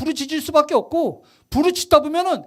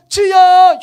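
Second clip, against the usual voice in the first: half-hearted mock cry; 6 semitones higher, 10 dB louder, much slower than usual. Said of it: "흉내 내는 거야".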